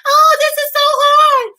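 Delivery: hammed-up whimper about school; mock whining. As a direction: drag it out like a self-pitying crybaby. Mocking crying man.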